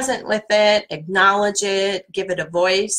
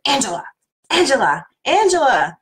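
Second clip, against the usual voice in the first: Angela said louder and higher each time; three Angelas rising to a loud call; building up; 5 semitones higher, 5 dB louder than usual. Shown as a demonstration. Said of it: "in all different kinds of voices".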